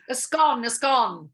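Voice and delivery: SCONE said to rhyme with "gone"; correcting pronunciation. Shown as a demonstration. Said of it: "but I say scone".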